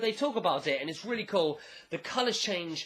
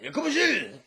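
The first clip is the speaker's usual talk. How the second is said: loud, high laughing mock shout; Jotaro yelling again; 9 semitones higher, 6 dB louder than usual. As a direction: shout it out while cracking up. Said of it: "he's like".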